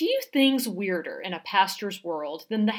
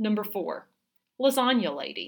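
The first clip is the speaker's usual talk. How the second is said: plain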